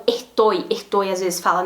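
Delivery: "ertoi" with the S breathed out as an H; aspirated S. Shown as a demonstration. Teacher imitating a regional aspirated S. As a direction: say "estoy" with an aspirated S. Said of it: "faz o S aspirado".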